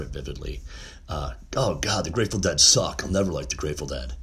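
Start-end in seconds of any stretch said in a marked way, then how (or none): 1.6-4.1 a hint of a laid-back surfer kid. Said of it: "I didn't have that surfer voice. I'm using that now".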